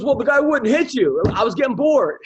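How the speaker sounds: casual excuse. Retold or imitated. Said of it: "He goes".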